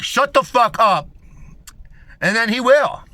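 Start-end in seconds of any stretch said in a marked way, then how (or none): 0.0-1.1 slow, loud, high shout of shut the fuck up; shouted threat. Retold or imitated. Telling off a dude before punching him, slow loud shout. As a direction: bark it down at him, slowly. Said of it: "you just punch him in his fucking head and be like".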